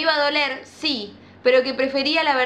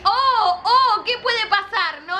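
much higher, louder and slow; mock suspense; 8 semitones higher, 4 dB louder, slower than usual. Real, not acted. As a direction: tease what comes next. Teasing the audience.

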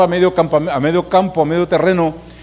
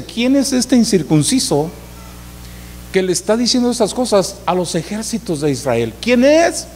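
higher, rising to a sharp high ¿Quién es?; indignant young David; 4 semitones higher than usual. Retold or imitated. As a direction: defy the giant with disbelief. David's indignant challenge voiced. (indignación de joven, subiendo a agudo)

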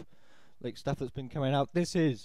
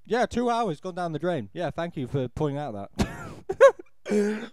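sarcastic reply; 6 dB louder, slower than usual. Retold or imitated. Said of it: "And I'm just like".

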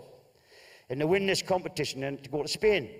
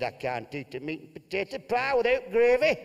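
a raised, blustering northern husband; gruff Bolton husband; 5 semitones higher than usual. Acted. Telling Martha he won't eat Spanish food. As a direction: bluster like a fussy holidaymaker.

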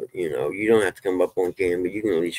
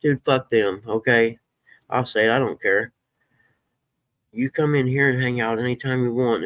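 fired up; 5 semitones higher than usual. Real, not acted. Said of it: "I get so fired up".

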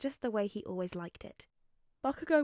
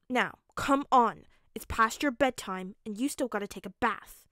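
put-on louder start, insistent boy in charge; bossy little Bakugo; 7 dB louder than usual. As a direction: order your friend along like a little parent. Small Bakugo orders friend about.

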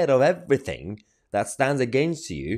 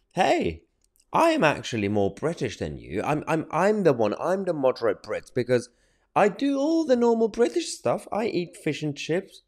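higher-pitched parody of opponents' boasting; mock self-righteous boast, pitched up; mocking quote; 5 semitones higher than usual. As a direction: mimic their claim in a raised, put-on voice. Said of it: "this is the narrative that they wanna create".

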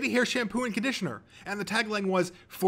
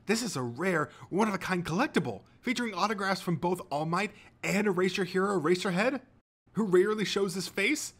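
high, excited fan gush building louder; hero fanboy gushing; 9 semitones higher, 4 dB louder than usual. A narrator's reading. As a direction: reel off treasures with mounting awe. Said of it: "ever the hero fanboy".

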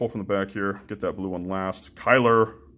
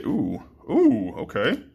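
excited; 10 semitones higher, much slower than usual. Real, not acted. Excited at a good pull.

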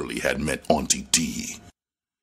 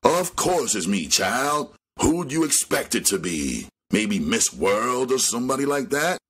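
put-on sharp old woman's yell; 7 semitones higher than usual. A narrator's reading. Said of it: "yelled sharply".

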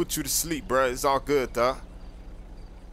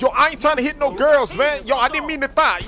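loud, high yell to break up a fight; frantic high shout, stop the fight; 8 semitones higher, 6 dB louder than usual. Acted. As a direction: yell at them to back off.

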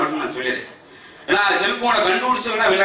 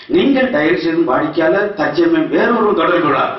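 computer voice; 3 semitones lower than usual. Retold or imitated. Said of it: "அதுல ஒரு computer voice".

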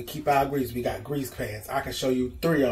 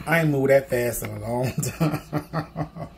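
slow words broken by a real laugh; laughing at herself; slower than usual. Real, not acted. Telling the camera she ran, laughing. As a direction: laugh it out after running from the dog. Laughing at her own run.

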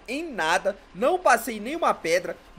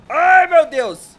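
loud, drawn-out gasp of alarm; alarmed cry; 5 semitones higher, 11 dB louder, much slower than usual. Real, not acted. Player spooked while parking, loud slow cry of alarm. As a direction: cry out slowly in fright. Sudden fright at the stop.

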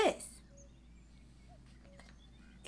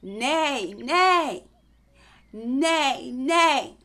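loud neighing like a horse; 2 semitones higher, 4 dB louder, much slower than usual. Shown as a demonstration. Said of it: "A horse says".

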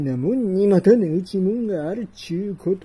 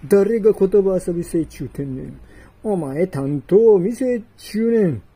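louder, quicker exasperated scolding; exasperated shout; 5 dB louder than usual. Acted. Customer scolds the punning dealer, exasperated and loud. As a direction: cut off his wordplay sharply.

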